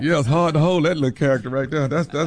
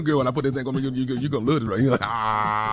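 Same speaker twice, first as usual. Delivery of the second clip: winded, breathy mock seduction; puffing after a long bit; out of breath. Real, not acted. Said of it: "You're out of breath".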